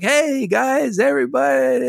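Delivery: high, goofy cheering cartoon dad; Homer voice. Man retelling Simpsons episode, high goofy Homer cheer. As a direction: crow it like a giddy cartoon dad. Homer greets baby shower.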